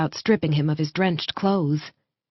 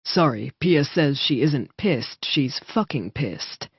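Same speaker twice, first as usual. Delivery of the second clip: affectionate relay; 3 semitones lower, slower than usual. Acted. Brother relaying sister's curse to Garnet, slow and fond. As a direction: pass on the swear with a fond smile. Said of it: "his tone holding a deep vein of affection".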